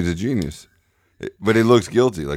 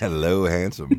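slow, seductive purr to himself; breathy vintage purr; slower than usual. Pretend. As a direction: flirt with your own reflection. Admiring himself on camera.

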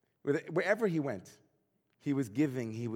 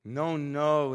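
louder, pressing objection; insistent; 5 dB louder than usual. Retold or imitated. Ivan rejects his friend's easy answer, insisting. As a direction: refuse to accept the answer, mock drunken insistence. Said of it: "insisted Ivan".

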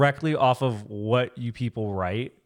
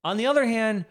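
laughing; 10 semitones higher, 4 dB louder than usual. Real, not acted. Laughing at own blunt advice.

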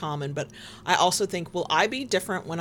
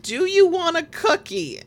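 put-on doting elderly voice; 10 semitones higher, 5 dB louder than usual. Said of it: "Then I was like".

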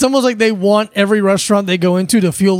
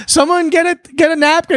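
higher, lightly voiced woman; woman demanding help; 5 semitones higher than usual. Woman at table asking for help, lightly voiced urgency. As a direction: lift the pitch for an urgent request. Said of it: "a woman's like".

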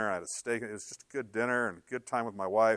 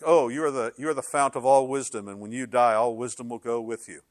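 sarcastic; 3 dB louder than usual. Retold or imitated. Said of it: "That's sarcasm".

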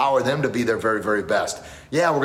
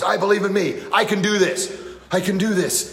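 loud, higher, chanted self-belief; loud with conviction; 8 semitones higher than usual. Retold or imitated. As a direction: shout it like you finally believe it. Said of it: "And he starts shaking".

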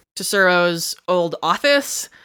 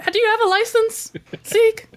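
higher, quizzical official; raised-pitch boss voice. Acted. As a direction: ask like a skeptical boss. Zoo boss asks Zeke.

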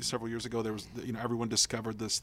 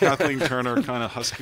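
husky Kathleen Turner; 7 dB louder than usual. Pretend. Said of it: "make yourself sound like a woman".

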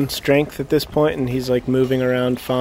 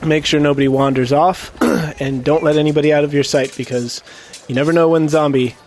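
public announcement; 3 semitones higher than usual. Acted. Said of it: "I'm like".

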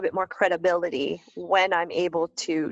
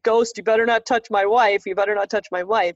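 mock warning; 4 dB louder than usual. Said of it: "like, joking in the air".

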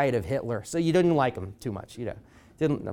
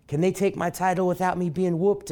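rallying call; 7 semitones higher, 3 dB louder than usual. Retold or imitated. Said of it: "end his speeches by saying".

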